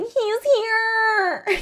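high wailing mock-spooky call; Mandy calling. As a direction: sing out high, drawn-out and mock-creepy. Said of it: "then Mandy calls and is like".

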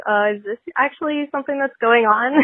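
puzzled questioning voice; confused. Retold or imitated. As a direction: sound confused and unsure. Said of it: "Sounding confused".

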